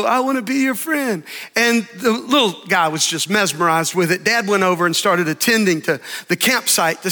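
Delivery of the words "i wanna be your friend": echo. Retold or imitated. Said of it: "came back in echo".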